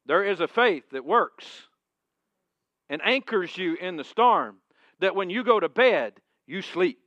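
loud, high preaching voice; full-force preaching. Acted. Pastor exhorting his congregation about storms, full-force preaching. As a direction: preach it out with conviction.

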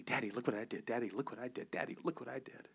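put-on child's voice. Daughter voiced in a story.

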